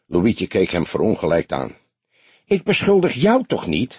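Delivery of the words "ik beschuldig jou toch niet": protesting call. A narrator's reading. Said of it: "riep hij hoofdschuddend".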